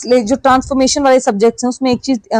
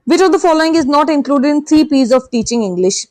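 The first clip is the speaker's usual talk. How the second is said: reads the sentence out slowly and evenly; slow question reading; 3 semitones higher, much slower than usual. Shown as a demonstration. Teacher reading the exam sentence to students, slow and measured. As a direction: dictate it word by word to the class.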